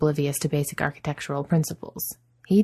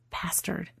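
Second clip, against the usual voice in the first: much softer spat whisper; whispered curse; 3 semitones higher, 10 dB quieter than usual. A narrator's reading. Adam sees the wizard and whispers a curse. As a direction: hiss the word under your breath. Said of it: "he flinches and whispers".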